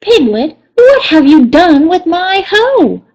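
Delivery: annoyed Rabbit confronting Piglet; in a huff. Acted. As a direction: demand it with ruffled impatience. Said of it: "he was in a bit of a huff".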